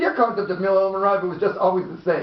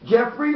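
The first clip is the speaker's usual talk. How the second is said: "Jeffrey" spoken slowly to show where the beat falls; contrasted stress; 5 semitones higher than usual. Shown as a demonstration. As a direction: weigh the syllables of "Jeffrey" as a demonstration. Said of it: "not Jeffrey".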